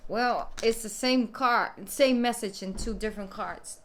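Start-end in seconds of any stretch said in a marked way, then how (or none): none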